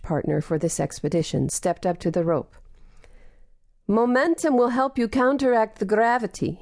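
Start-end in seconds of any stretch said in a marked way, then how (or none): 3.9-6.6 put-on higher, gentle Russian-accented call; Russian accent, compassionate. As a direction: coax her on in a kind Russian accent. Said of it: "compassion streaming through his Russian accent".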